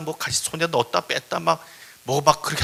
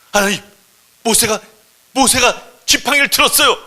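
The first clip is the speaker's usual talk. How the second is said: high, loud, halting shout; excited report; 7 semitones higher, 10 dB louder than usual. Acted. Thornbush telling God Moses lifted the staff, excited shouting. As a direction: burst out with thrilling news.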